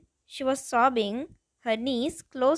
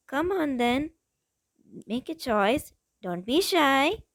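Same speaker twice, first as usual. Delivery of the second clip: teasing menace with a smile in the voice, slowing on don't be shy; sinister smile. Acted. You taunt the trembling last thug, sinister smiling tease. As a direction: toy with him, sweetly cruel. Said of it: "you said with a sinister smile".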